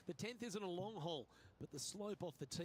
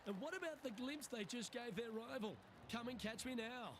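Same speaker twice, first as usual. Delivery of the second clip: excited; 5 semitones higher than usual. Real, not acted. Reacting to a sensational putt.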